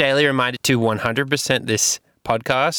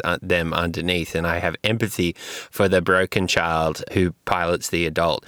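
mocking Darby. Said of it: "I know what people are thinking".

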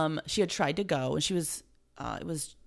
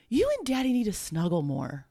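put-on child's voice; 5 semitones higher than usual. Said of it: "she said".

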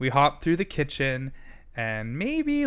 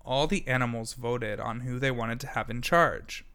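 ordinary delivery

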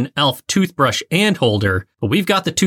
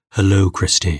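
low, smooth radio voice; sultry podcast voice; 6 semitones lower than usual. Shown as a demonstration. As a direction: purr it like a late-night host. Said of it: "With your sultry podcast voice".

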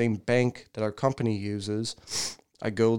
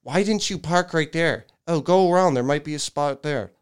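imitating a nagging passenger; 4 semitones higher than usual. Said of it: "I fucking hear it right now".

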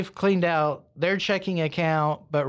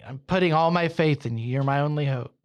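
fast, urgent muttered plea to God; hurried, acted praying under pressure; faster than usual. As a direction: rattle it off as a desperate prayer. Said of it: "he's praying the whole time".

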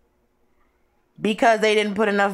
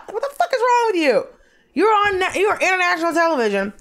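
mock outrage; 7 semitones higher, faster than usual. Mock outrage at baking contestants.

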